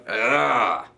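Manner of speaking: tight stressed "ugh"; tense groan. Shown as a demonstration. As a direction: groan like you're wound up. Demonstrates feeling tight and stressed.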